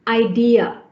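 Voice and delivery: idea said i-DEE-ya; linking y sound. Shown as a demonstration. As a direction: glide through a y before the a of idea. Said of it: "a y sound".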